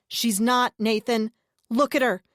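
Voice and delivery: loud, slow, insistent plea; urgent pleading. A narrator's reading. Narrator urging the brother loudly and slowly. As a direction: press each word to break through. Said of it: "I tried again".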